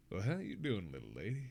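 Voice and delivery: smooth southern flirt, dropping low; southern accent. Shown as a demonstration. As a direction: turn on the southern charm. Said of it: "That's the southern accent I'm talking about".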